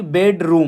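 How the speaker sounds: बेडरूम split as बेड, then रूम; slight pause inside बेडरूम. Shown as a demonstration. Teacher showing juncture, बेडरूम with a slight break. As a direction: leave a small gap between बेड and रूम in बेडरूम. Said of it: "बेड और रूम के बीच मैंने थोड़ा सा pause दिया".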